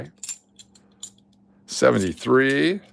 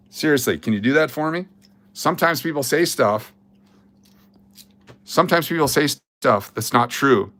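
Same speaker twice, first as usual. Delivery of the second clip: exasperated lecture. Real, not acted. Streamer scolding viewers who took the joke literally, exasperated. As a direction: lecture the fun haters, fed up. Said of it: "That was my lecture".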